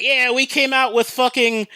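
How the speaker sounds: high-pitched imitation of thrilled customers; hammed-up celebratory cheer, pitched well up; mock happy gloating. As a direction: crow triumphantly, as if imitating winners. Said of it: "they go all happy thinking".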